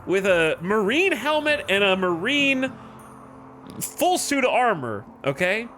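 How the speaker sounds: mock Birmingham gang-boss accent, high and pressed; Peaky Blinders accent. Colony leader scolds colonists at the graveside, in a Birmingham accent. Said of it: "I don't know why I just went into that accent".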